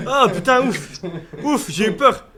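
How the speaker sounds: loud relieved gasp of words; relieved exclamation. Real, not acted. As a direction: blow out the fear, loudly. Relief after scare.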